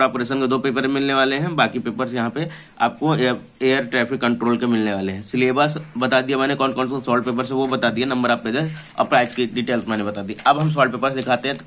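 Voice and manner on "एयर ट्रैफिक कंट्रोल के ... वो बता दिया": ordinary talk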